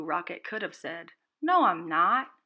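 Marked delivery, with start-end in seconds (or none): 1.4-2.3 firm no. A narrator's reading. What Rocket could have said.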